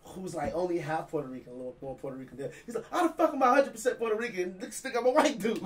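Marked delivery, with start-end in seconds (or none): 2.9-5.6 higher-pitched incredulous griping; retold protest, voice pitched up in disbelief; mock indignation. Friend griping about being taken for white, mock indignant. Acted complaint of mistaken friend.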